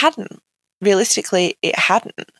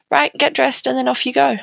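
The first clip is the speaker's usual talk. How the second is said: higher, brisk, dismissive nurse; 6 semitones higher than usual. Retold or imitated. Nurse telling the patient to leave, brisk and dismissive.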